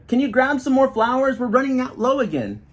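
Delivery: high, loud urgent request; hollering. A narrator's reading. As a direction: shout over the lunch line. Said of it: "hollers Lander".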